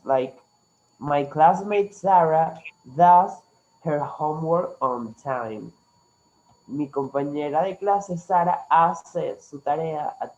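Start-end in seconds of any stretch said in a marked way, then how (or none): 1.0-5.7 slow, clear teacher model; slow model sentence. Shown as a demonstration. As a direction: say each word slowly for the class. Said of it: "she also can do other things".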